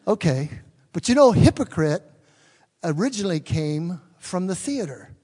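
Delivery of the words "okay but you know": usual speaking voice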